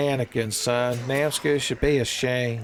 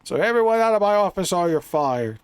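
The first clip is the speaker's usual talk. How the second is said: mock-stern Picard, shouting out of my office; hammed-up captain ordering staff out; Picard impression; 6 semitones higher than usual. Picard ordering his crew out of the office, mock-stern and shouted. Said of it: "And Picard's like".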